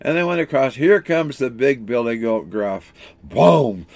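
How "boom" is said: imitated thud of a big goat's step; one resounding storybook stomp; heavy footstep boom.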